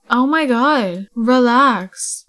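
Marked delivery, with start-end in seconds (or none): 1.1-2.3 louder, falling relax; firm relax. Pretend. Telling the upset sim to relax, firmly. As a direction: tell the sim to settle down firmly.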